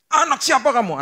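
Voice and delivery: put-on high, loud furious shout at a child; angry parent. A father yelling at his son, mock fury. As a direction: blast the kid like a raging father. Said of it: "kalau marah gitu orang tua".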